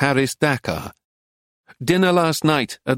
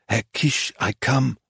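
a soft, softer cooing call to her lover; 3 dB quieter than usual. Acted. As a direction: coo it like a tender promise. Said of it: "and cooed".

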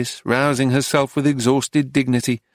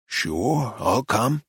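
smiling; 4 dB quieter, much slower than usual. A narrator's reading. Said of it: "he smiled".

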